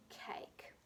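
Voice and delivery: whispered to herself while thinking. Shown as a demonstration. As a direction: breathe the word to think it through. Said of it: "sounding out the word".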